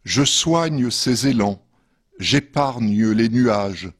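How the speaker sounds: measured poetry reading with pauses between verses; poem reading. Acted. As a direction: read each verse line apart, letting it settle. Reads own poems after intro. (lecture de poème posée)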